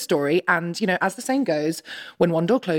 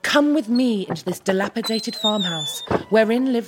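lightly dramatic storyteller read; story narration. Acted. Writer reading stage directions to the cast, gently dramatic. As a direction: set the scene like an old tale.

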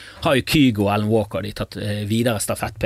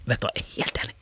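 mock outraged agreement; 6 semitones higher, faster than usual. Shown as a demonstration. Stewardess soothing an angry passenger by agreeing, building to a mock rant. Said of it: "Beste måten å takle sånn klaging på er bare sånn".

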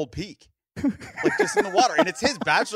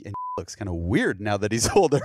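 laughing; 4 semitones lower, 5 dB louder than usual. Real, not acted. Quoting mom while laughing.

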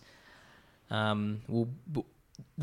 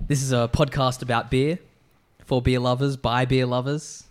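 podcast host intro; 4 dB louder than usual. Acted. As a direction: announce it like a radio host. Host welcomes listeners back.

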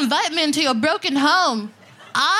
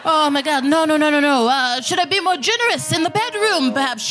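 lightly voiced clueless guy, pitched higher; whiny worried husband, mocked; half-hearted panicky dude voice; mocking straight dude; 3 semitones higher, faster than usual. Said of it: "straight dudes walking around".

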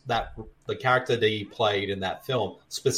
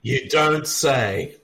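sarcastic; 3 semitones higher, much slower than usual. Acted. Mock reply to a trivia goof.

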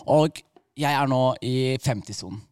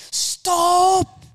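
loud, high yell of alarm; retold shout; 6 dB louder than usual. Friends in the car yell at the driver, high shout. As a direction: yell it out like startled passengers. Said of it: "så roper de bare".

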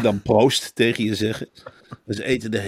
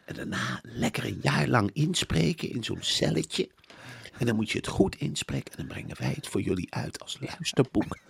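high, put-on coaxing voice, often half-whispered; mock eager publisher, coaxing; 6 semitones higher than usual. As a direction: woo the authors in a high, sugary sales voice. Plays a publisher wooing authors.

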